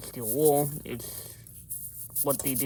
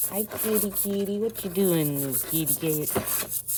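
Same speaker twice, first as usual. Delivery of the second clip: high, sing-song kitty voice; talking to a cat; 5 semitones higher than usual. Real, not acted. Greeting the kitty mid-video, high coaxing voice. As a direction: coo up at the cat.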